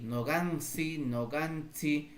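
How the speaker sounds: nogansi with s or ts instead of ch; "nogansi" ending in an open "si"; variant "si" pronunciation. Shown as a demonstration. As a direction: model nogansi twice, unhurried, no final k. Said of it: "Tú puedes pronunciar sí".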